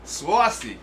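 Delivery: New York "sawcy"; playful New York vowel; Long Island accent. Retold or imitated. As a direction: imitate a Long Islander saying "saucy". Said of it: "Love the accents".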